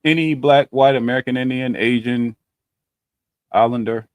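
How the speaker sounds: glitchy robotic voice from a bad connection; choppy, robotic call audio. Real, not acted. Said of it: "You started talking like a robot".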